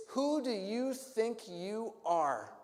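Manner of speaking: slow, drawn-out, disbelieving; each word weighed in contempt; slow indignant challenge. Acted. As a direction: leaders sizing Jesus up with scorn.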